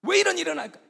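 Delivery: loud, high exasperated demand; mock outrage, voice shooting up; retold angry outcry. Missionary finds his pineapples eaten, angry outcry. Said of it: "선교사가 너무 화가 났습니다".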